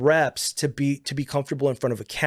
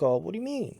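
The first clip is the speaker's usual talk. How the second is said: higher, questioning reaction to an accusation; truly reacting; 5 semitones higher, 4 dB quieter than usual. Shown as a demonstration. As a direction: answer as if you really heard it. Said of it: "if you really truly listen to somebody".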